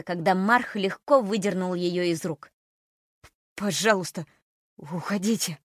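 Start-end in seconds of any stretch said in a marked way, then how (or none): 3.5-5.6 trembling plea; terrified pleading hostage. Acted. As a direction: beg them to leave, shaking. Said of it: "дрожащим голосом попросил он".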